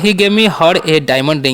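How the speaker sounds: very slow, word by word English; slow dictation. Shown as a demonstration. Teacher to students, slow dictation. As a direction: spell it out slowly for the class.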